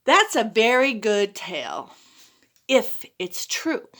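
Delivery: smiling. Acted. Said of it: "she smiled and she said".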